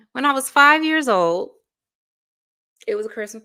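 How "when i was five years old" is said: repeated higher and louder through a laugh. Real, not acted. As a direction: say it again, laughing at the memory. Retells a childhood story, then repeats.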